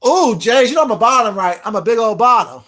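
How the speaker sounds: loud, hammed-up gushing; mock confession. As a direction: announce it loudly, laughing at the end. Mockingly acting out being a bottom.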